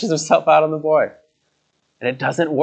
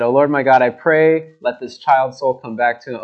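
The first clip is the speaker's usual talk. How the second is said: crying out. Acted. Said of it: "He cried out to God".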